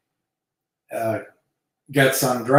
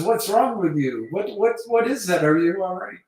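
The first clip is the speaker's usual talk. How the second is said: high-pitched imitation of a baffled lover; bewildered woman; 8 semitones higher than usual. Woman to lover who fell off the bed, mock alarmed bewilderment. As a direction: question him in a raised, put-on woman's voice. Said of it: "And she says".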